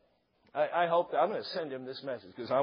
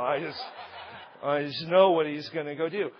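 ordinary talk, nothing marked

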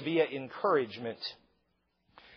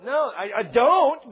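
ordinary delivery

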